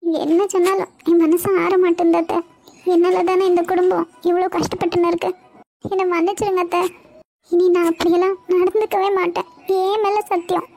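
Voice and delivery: high-pitched, earnest apology; remorseful pleading. Acted. Niece swearing to her aunt she will change, remorseful. Girl apologises, told not to cry.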